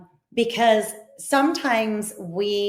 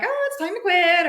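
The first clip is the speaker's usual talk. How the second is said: gremlin voice; 10 semitones higher than usual. Acted. Voicing the gremlin voice.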